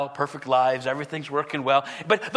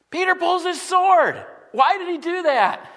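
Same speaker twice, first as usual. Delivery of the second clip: heightened preaching; 10 semitones higher, 3 dB louder than usual. Acted. Preacher rises at the sword scene.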